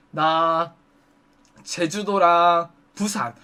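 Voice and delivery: low, drawn-out thinking aloud; slow recalling. Retold or imitated. Customer recalling his trips for the hostess, slow and hesitant. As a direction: stretch the words while searching memory.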